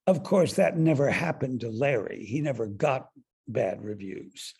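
a mild imitation of icy sarcasm; lightly voiced cool dig, slowing at the end; a touch of frost in the retold barb; icy edge. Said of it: "her tone dripping with edge".

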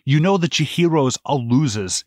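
put-on German accent. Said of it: "in that thick-ass German accent".

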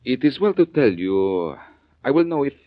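a Frenchman who knows his stones; French accent. Acted. Frenchman warning the fence he knows the stones, French accent. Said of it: "Gonna try out your French accent?".

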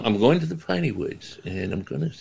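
lightly mocking put-on voice, pitch jumping up at the start; a hint of a goofy comedian, in broken phrases; Adam Sandler. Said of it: "Sounds like Adam Sandler".

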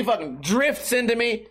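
ordinary delivery

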